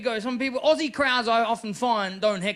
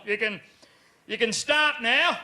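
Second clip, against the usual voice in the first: sarcastic dad; 2 semitones higher, 4 dB louder than usual. Retold or imitated. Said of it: "and he's gone".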